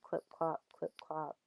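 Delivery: "clip-clop, clip-clop" in an even two-beat pattern; even rhythmic pattern. Shown as a demonstration. Teacher illustrating nursery-rhyme meter, rhythmic "clip-clop, clip-clop". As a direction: tap out "clip-clop, clip-clop" evenly like hoofbeats. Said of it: "Rhythmic pattern".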